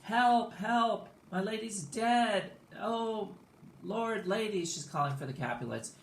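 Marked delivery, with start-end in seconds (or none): 0.0-4.6 high, loud acted holler; hammed-up high-pitched call for help. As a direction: cry out in mock alarm.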